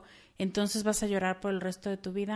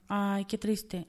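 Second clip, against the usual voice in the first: drawn-out mock lament; 4 dB quieter, much slower than usual. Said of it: "te le quedas viendo todo el tiempo y dices".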